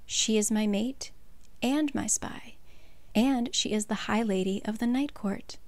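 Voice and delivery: said quietly. Retold or imitated. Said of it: "And Rhysand says quietly".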